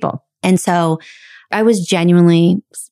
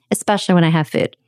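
ordinary talk, nothing marked

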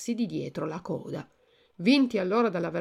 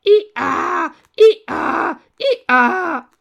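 very loud, high imitated hee-haw; donkey braying; 10 semitones higher, 13 dB louder, much slower than usual. A narrator's reading. Two boys turned donkeys try to lament, loud braying. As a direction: bray sonorously like a donkey. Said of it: "mandavano fuori dei ragli asinini e, ragliando sonoramente".

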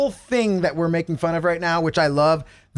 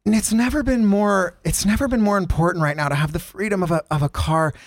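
affected DJ ad read. Retold or imitated. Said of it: "She has a line where she goes like this".

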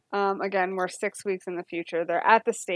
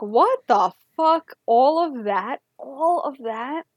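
disbelief; 4 semitones higher, 4 dB louder, slower than usual. Retold or imitated. Reacting to the show's reveal.

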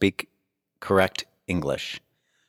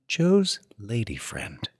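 sultry; 5 dB quieter, much slower than usual. Acted. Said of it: "You've read that in such a sultry tone".

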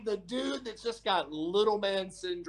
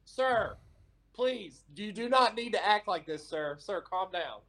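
victim mode. Retold or imitated. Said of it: "victim mode engaged".

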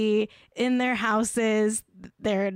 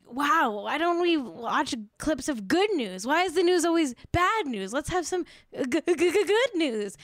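mocking Krasinski's host voice; 5 semitones higher than usual. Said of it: "It was about".

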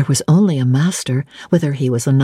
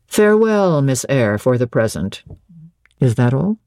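Rochester; 3 semitones lower than usual. Acted. Master repeating Jane's farewell, voice falling low. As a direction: echo it as the master, pitch dropping away.

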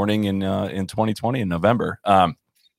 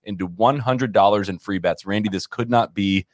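ad read. Acted. Reads a sponsor ad.

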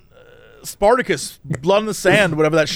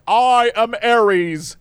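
slow booming god intro; drawn-out villain god line; 4 semitones higher, much slower than usual. Retold or imitated. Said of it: "something weird would happen".

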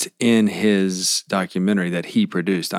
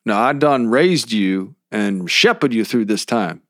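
slow preachy Southern drawl; Baby Billy voice; slower than usual. Retold or imitated. Baby Billy lecturing his child, slow Southern drawl. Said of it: "Baby Billy Baba Bonkers".

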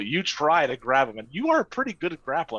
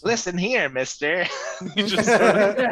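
higher, louder, scolding tone; 4 semitones higher, 3 dB louder than usual. Acted. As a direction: tell him off sharply. GM scolding as character.

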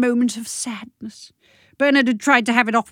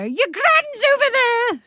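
much higher, slow mock-alarmed cry; mock alarm call; slower than usual. Wife teasing her husband mid-romp, mock alarmed. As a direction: cry it out like you've just spotted her. Joke shout during sex.

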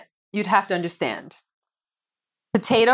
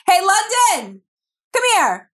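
calling out; 13 semitones higher, slower than usual. Real, not acted. Calling the kid from afar.

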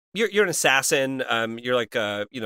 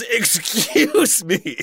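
prim woman voice; 6 semitones higher, 4 dB louder, much slower than usual. Retold or imitated. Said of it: "all she said was".

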